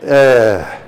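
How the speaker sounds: drawn-out groan of disappointment; deflated groan. Acted. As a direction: let out a let-down "uhh". Reacts to news of canned project.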